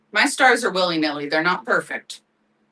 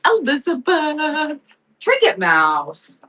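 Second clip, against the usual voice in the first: calling out names; 7 semitones higher, much slower than usual. Real, not acted.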